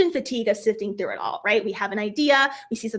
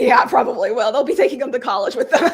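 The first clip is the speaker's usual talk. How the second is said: laughing; 5 dB louder than usual. Retold or imitated. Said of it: "My husband's laughing, saying".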